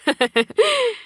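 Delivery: short high confident laugh from the junior; a quick self-assured chuckle. Acted. 후배가 자신만만하게 웃음. (자신만만하게 높게 터뜨리는 짧은 웃음)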